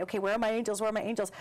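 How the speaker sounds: mock freaking out. Guest acting out someone freaking out and calling angels, mild mock panic. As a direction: act out a mild fretful search for help. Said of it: "if I'm freaking out".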